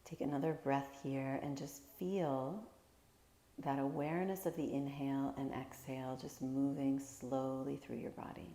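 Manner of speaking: calm, unhurried meditation guide with long pauses; guided meditation. Real, not acted. Teacher guiding listeners through a body scan, calm guided meditation. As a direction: gently lead them through each breath, leaving space.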